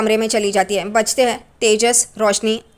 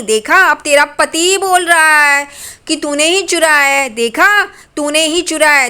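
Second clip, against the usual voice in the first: mocking taunt; 3 semitones higher, 3 dB louder than usual. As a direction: drag out the sarcasm to mock her. Mother-in-law gloats, taunting.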